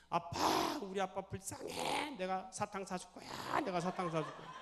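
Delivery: high, drawn-out mock bawling; acted wailing child. Daughter hugging dad from behind, acted childish wailing. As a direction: wail it slowly like a crying little girl. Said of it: "애들이 그냥 울고 있더래요".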